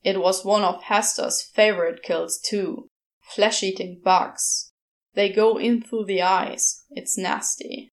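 lightly voiced disgusted demon; Crowley voice. Crowley describing a grisly kill.

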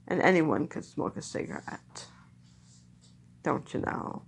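put-on low-pitched Mid-Atlantic accent of old film stars; old Hollywood Mid-Atlantic accent. Reminiscing like a trained film actor, Mid-Atlantic accent. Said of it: "they trained actors to talk".

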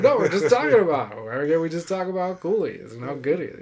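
high-pitched mock protest; exaggerated, pleading comeback; retold protest. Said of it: "I'm like".

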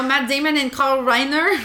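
light put-on French accent. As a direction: say the names in a playful French accent. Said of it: "We can start now".

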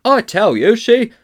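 high, loud protest, cut short; indignant fat man. A narrator's reading. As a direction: start complaining to the policeman, high and loud. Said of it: "began the fat man".

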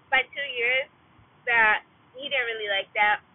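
talking while chewing gum. Real, not acted. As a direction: mouth working on fresh gum. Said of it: "sorry, I'm trying to put the gum in my mouth".

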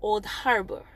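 put-on Old Harbor without a Jamaican accent. Shown as a demonstration. Speaker demonstrates Old Harbor to listeners, without Jamaican accent. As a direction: try it minus the Jamaican accent. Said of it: "without the Jamaican accent".

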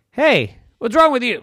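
lightly voiced talking kelp. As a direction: call out as a chirpy seaweed.

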